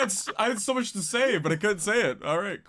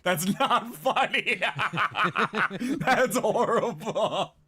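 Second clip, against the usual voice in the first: slow, laughing protest; laughing plea; 3 semitones lower, slower than usual. Real, not acted. Host begging the guest to drop the joke, laughing slowly. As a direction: beg them to stop while cracking up.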